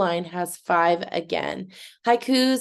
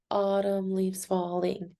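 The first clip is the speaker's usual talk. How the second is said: Autumn leaves falling softer, in five measured beats; syllable by syllable; 5 dB quieter than usual. Shown as a demonstration. Teacher repeating the count, Autumn leaves falling syllable by syllable. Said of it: "Can you count the syllables in that?".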